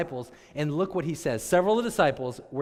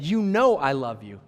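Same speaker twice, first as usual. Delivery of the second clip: firmer reply; 6 dB louder than usual. Retold or imitated. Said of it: "Peter said".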